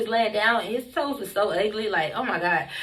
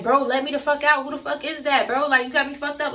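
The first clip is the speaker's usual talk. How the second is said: higher, mildly rowdy protest; rowdy retold demand; 4 semitones higher than usual. To man guarding the door, mildly rowdy retelling. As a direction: act out getting rowdy, pitch lifted. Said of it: "Like, I'm getting rowdy".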